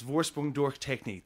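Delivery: slow, mock advert voiceover; car ad slogan. Comedian pitches an Audi ad for execution, slow mock voiceover. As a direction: intone it like a TV car ad. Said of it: "You could even do the ads".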